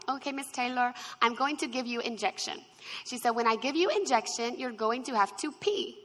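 light imitation of an Indian accent, drifting Australian; playful Indian accent that slides toward Australian; imitating Indian accent. Wife retelling the nurse's words in a mock Indian accent. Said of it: "I'm gonna try to imitate her".

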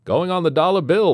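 high, loud exclamation; admiring onlooker. A narrator's reading. Onlooker praises the inventor at the launch, exclaiming. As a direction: call it out from the crowd.

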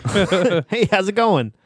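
imitated easygoing hello; breezy cover-up greeting. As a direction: greet casually to avoid saying the name. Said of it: "I'll just go like".

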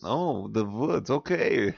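slow attempt at German accent; drawn-out amateur German. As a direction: repeat it slowly in a mock German accent. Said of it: "speak with your best German accent".

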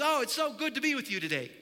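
high, loud burst of delight; overjoyed. Acted. God greeting you in the morning, overjoyed. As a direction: exclaim it, bouncing with joy. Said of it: "he jumps up and down and spins all around".

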